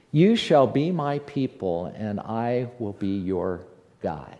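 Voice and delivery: tender hushed echo of the verse; soft repeat. Acted. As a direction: let the promise sink in gently.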